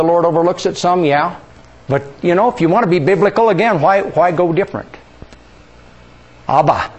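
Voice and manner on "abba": Abba as AH-bah, open vowels, falling; Hebrew word. Shown as a demonstration. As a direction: model Abba for the class to repeat. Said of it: "Can all of you pronounce Hebrew?".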